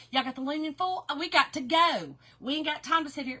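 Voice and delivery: rushed Southern stick-and-move delivery; hurried. Acted. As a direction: hustle everyone along, no time to spare. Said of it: "I'm in a hurry".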